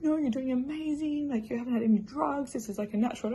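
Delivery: imitating supportive birth team; encouraging. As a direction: gently cheer on an exhausted mother, voice lifted. Team encouraging her in labour.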